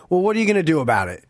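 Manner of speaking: quick offhand challenge; retold taunt. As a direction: toss the line out fast and casual. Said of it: "this is the classic line".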